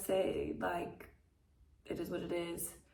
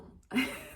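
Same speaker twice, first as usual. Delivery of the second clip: teary laugh; 6 dB louder than usual. Real, not acted. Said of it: "This is why I can't stop crying".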